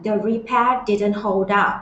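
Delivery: very slow, each word stretched; slow model reading. Shown as a demonstration. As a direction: model the line for students to copy. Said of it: "teacher models the clip line".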